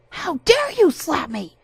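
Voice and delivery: high, loud, slow outrage; indignant shout. Acted. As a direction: demand it in wounded fury. Harasser outraged after slap.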